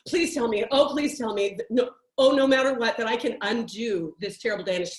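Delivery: mock panic. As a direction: beg like you're freaking out, hammed up. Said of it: "freaking out fear texts".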